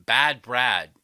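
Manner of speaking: loud mocking call-out; mocking shout. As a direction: bellow the name with scorn. Mock calling out name.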